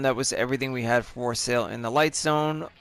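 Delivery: losing voice, a little hoarse. Real, not acted. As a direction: talk through a fading voice. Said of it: "I'm losing my voice here a little bit".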